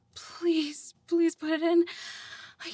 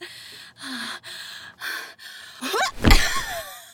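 laugh; 11 semitones higher, 3 dB louder than usual. Real, not acted. Laughs after partner reacts.

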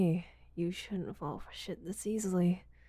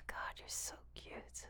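barely audible, much softer whisper; hushed breathless whisper; 14 dB quieter, slower than usual. Acted. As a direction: let it slip out under the breath.

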